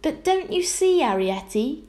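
distressed gasp, starting high and loud; desperate appeal, falling back at the end. A narrator's reading. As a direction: gasp it out in dismay. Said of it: "gasped Homily".

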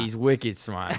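imitating a Boston accent; playful put-on New England accent. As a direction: echo the line in mock Boston. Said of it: "speaking of the accent".

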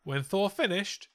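lightly performed poem reading; limerick recital. Acted. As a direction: recite it with mock ceremony. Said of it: "We interrupt this segment for a limerick".

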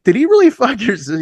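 high, disbelieving mock question; incredulous question. Singer confronting the heckler after the show, high incredulous. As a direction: ask it like you can't believe it. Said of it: "and I'm like".

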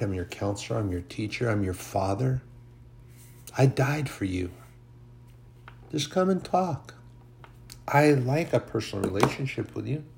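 a hint of tender reassurance to a troubled son; tender Holy Spirit. The Holy Spirit speaking to him.

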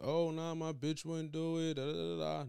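lightly mocking, drawn-out imitation; mock overconfidence. Imitating men too secure to worry, mock dismissive. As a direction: mimic a man too sure of himself.

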